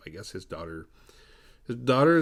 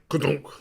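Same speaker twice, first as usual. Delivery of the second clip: spoken sound effect, raised and punchy; imitated car thump; 5 semitones higher, 4 dB louder than usual. Car running over Richard, imitated thump. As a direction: voice the thud of the car.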